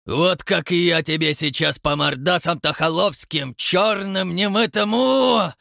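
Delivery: loud, rising to a high shout; building threat. A narrator's reading. Count threatens to slap the watchman, rising into a yell. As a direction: wind up and yell.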